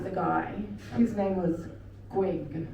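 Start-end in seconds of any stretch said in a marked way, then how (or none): 2.1-2.7 Greg said as Gweg with a w; says w for r. Retold or imitated. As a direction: Greg with r turned to w. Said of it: "He couldn't say his R's".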